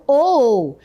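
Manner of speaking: "ou" held as a long double o; hiatus oo. Shown as a demonstration. Teacher showing students the hiatus, drawn-out double o. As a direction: draw out "ou" as two o vowels. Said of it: "palavras com o hiato".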